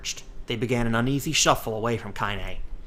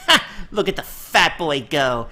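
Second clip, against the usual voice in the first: barked laugh; 5 semitones higher, 6 dB louder than usual. Acted. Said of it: "barked out a single laugh".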